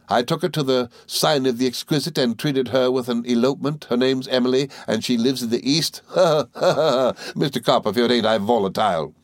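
high, quick, chattering little woman; Miss Mowcher voice. Acted. Mowcher chattering to the boys, high and merry. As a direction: rattle on like a gossiping dwarf.

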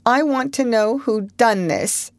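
high, wavering demand; quavering. A narrator's reading. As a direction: let the voice quaver. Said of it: "she quavered".

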